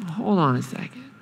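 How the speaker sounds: soft, whispering hold on; hushed calming. Retold or imitated. God quietly calming angry Jonah, whisper. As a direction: gently shush him. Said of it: "And God says".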